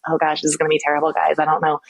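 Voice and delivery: fast, anxious mumbling; nervous speaker. Shown as a demonstration. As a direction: rush it like a scared presenter. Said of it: "presenting like this".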